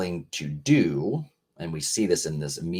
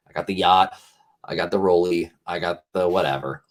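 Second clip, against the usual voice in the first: mock bragging; 4 dB louder than usual. Mocking status-bragging people.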